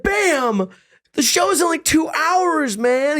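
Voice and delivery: high, hammed-up whiny manager; pleading manager. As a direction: beg the star in a squeaky voice.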